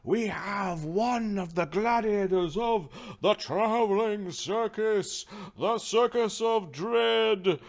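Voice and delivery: slow, loud, high-pitched grand introduction; drawn-out ring-announcer proclamation; arena announcer. Acted. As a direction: stretch each phrase for the crowd, ending in a long shouted name.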